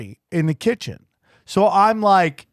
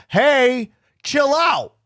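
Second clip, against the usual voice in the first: higher, pleading chill-out voice; mild mock plea to calm down; telling wife to chill; 5 semitones higher than usual. Husband urging wife to go easy on the phone agent, raised pitch. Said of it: "So I started telling Dana".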